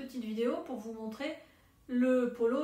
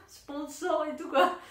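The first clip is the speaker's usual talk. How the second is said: laughing; 4 semitones higher, 7 dB louder, slower than usual. Real, not acted. Jokes about being a sponsor.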